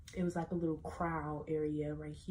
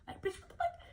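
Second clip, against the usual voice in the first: laughing disbelief. Retold or imitated.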